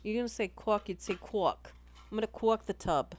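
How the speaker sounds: "cork" said as "cawk", no R. Shown as a demonstration. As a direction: round the vowel in "cork" to "cwawk". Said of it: "doesn't have an R in it".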